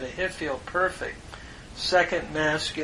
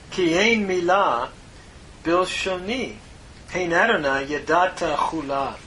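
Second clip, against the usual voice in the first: Hebrew verse read out, raised and louder; scripture reading; 2 semitones higher, 4 dB louder than usual. Acted. Teacher reading a Psalm verse aloud to the class, reverent.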